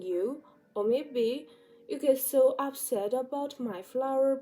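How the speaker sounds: put-on soft, condescending poor baby; mock pity. Turning the tables on the commenter with soft mock pity. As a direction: pity them sweetly and softly. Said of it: "You're gonna say".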